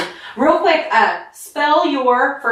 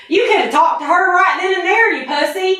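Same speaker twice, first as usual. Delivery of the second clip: redneck Southern accent; 6 semitones higher than usual. Shown as a demonstration. Guy showing the friend how a redneck says it, Southern accent. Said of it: "So it'd be something like".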